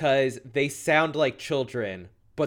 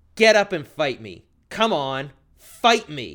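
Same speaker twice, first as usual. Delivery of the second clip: mock yell, loud, harmless-sounding and unintimidating; 5 dB louder than usual. Retelling how a wrestler lying on the mat is challenged: imitating someone yelling. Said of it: "And she yells".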